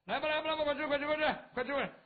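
high, loud hurried invitation; host urging villagers to come eat. Acted. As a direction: herd them to the food.

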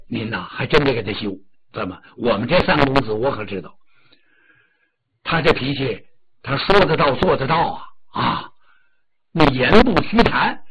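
低沉大声的管家, 心有余悸地劝; 压低音调但加重语气地劝夫人; 李兴劝说. Acted. 管家李兴劝夫人. (低沉响亮的管家口吻)

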